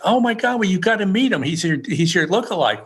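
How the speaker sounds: high, gushing retold exclamation; excited insistence. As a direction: imitate a stranger bursting with a discovery. Excited stranger insists on introduction.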